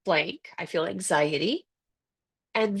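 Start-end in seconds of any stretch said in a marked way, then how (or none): 0.0-1.6 slow demo phrase. Shown as a demonstration. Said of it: "the phrase is".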